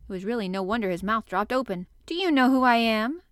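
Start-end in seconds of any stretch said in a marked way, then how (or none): 2.0-3.2 loud, lordly question; imperious demand. A narrator's reading. Colin confronting the gardener from his wheelchair, imperious. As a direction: demand recognition like a rajah. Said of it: "demanded the rajah".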